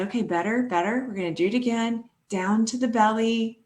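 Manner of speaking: soft encouraging coach; soothing coach. Retold or imitated. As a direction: reassure them gently. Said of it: "I'll say".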